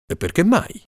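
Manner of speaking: a hint of the king. King asking Ferrazzano why, puzzled.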